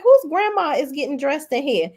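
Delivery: high-pitched catty imitation; mock disdain. Castmate judging the store's clothes, retold in high mock disdain. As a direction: pitch it up, mocking her disbelief.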